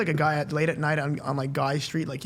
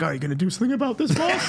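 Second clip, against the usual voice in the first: egging him on; 4 semitones higher than usual. Retold or imitated. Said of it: "with my eyes, I was like".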